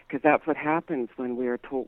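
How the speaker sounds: ordinary talk, nothing marked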